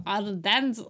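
badly faked French accent. Shown as a demonstration. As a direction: have a clumsy go at French. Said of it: "This is my French accent".

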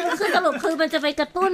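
sheepish laugh while explaining; laughing through words. Real, not acted. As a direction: laugh it off and carry on. Laughs off skipping technical detail.

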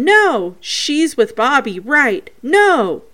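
a hint of mimicked objection; imitating Vicky. Quoting a spirit about Bobby, lightly imitated. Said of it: "And they think that's Vicky".

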